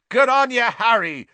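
high, loud cheering roar. A narrator's reading. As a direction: roar it over the crowd. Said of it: "roared Seamus Finnegan".

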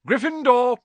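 the Sorting Hat bellows the house; hat's shout. A narrator's reading. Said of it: "shouted the hat".

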